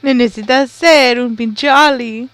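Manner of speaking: loud, laughing delivery; laughing shout. Real, not acted. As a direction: blurt it out through laughter. Retelling, laughing loudly.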